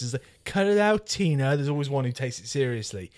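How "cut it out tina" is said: high, mocking teen put-on; funny teenager voice. Film teenager telling off Tina, in a high funny voice. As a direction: pitch it up like a silly film teenager. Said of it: "they're gonna do it in a funny voice".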